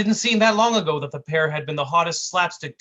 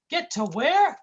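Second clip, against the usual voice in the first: high goofy cartoon whine; 12 semitones higher, 3 dB louder, slower than usual. Sidekick whining at his mean partner, high goofy voice. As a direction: plead like a hurt buffoon.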